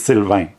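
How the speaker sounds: Sylvain ending in the French "ain" vowel; French pronunciation. Shown as a demonstration. Introducing their own name to viewers, French pronunciation of Sylvain. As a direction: say Sylvain the French way, final n not sounded. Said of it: "don't know how to pronounce it".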